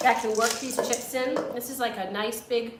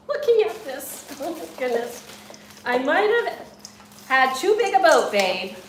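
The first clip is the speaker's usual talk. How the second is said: laughing, higher and louder; 4 semitones higher, 6 dB louder than usual. Real, not acted. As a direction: giggle through the words. Laughing at too many chips.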